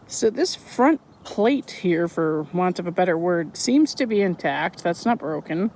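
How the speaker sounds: stiff cold lips; talking through a numb frozen face. Real, not acted. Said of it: "my face is frozen if I sound funny".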